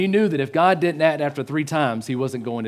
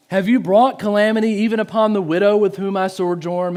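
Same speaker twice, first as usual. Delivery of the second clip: raised, pleading question; higher-pitched appeal to God; crying out in prayer; 5 semitones higher, 3 dB louder than usual. Retold or imitated. Elijah questions God over the widow's calamity, crying out. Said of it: "he cried to the Lord".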